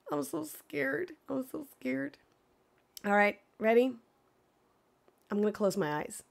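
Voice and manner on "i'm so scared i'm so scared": soft, murmured nerves; quiet nervous. Real, not acted. Streamer muttering to herself before the reveal, soft nervous murmur. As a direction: say it much softer, almost to yourself. Repeats it under her breath.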